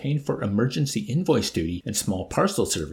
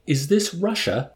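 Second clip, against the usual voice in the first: incredulous shout; 7 semitones higher than usual. Acted. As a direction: shout it in disbelief. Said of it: "at the top of his voice".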